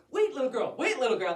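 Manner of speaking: lightly voiced wolf, urgent plea; pleading wolf. Wolf tries to calm the little girl, urgent pleading. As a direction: plead to be heard over screams.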